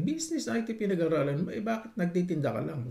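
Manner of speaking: mock the snob looking down on him; a lightly voiced haughty auntie sneering; snooty questioner. Snobbish Filipina questioning him.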